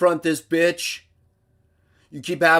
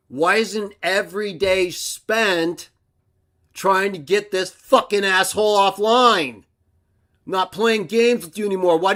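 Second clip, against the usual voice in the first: exasperated shout; 5 semitones higher than usual. Real, not acted. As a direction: push the viewers hard. Demanding of viewers.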